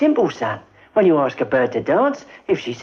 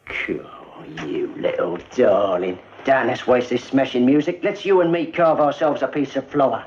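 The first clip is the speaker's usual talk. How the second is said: confident chat-up; 6 semitones lower than usual. Shown as a demonstration. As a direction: purr it like a dance-hall Romeo. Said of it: "I walk up to him like this here".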